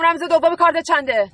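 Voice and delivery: impatient repeat. Acted. Robber demands the PIN again, impatient. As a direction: press the question again, losing patience. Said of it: "گفتم".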